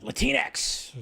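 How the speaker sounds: high, hushed club-name tease; mock sultry nightclub whisper. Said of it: "that sounds like a weird nightclub".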